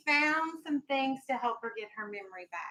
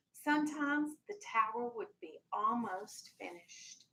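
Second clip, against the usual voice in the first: gentle storybook read-aloud for a class; lightly voiced picture-book reading; reading to children. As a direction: read it like story time on the rug.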